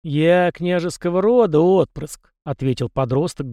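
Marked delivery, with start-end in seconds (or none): 0.0-2.3 slow, high, haughty declaration; proud. A narrator's reading. Young prince asserts his noble birth, proud. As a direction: announce it with jutting-jaw pride. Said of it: "гордо выпитив челюсть".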